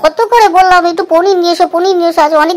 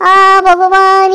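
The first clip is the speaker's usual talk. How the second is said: exasperated; much slower than usual. Acted. Wife exasperated at husband.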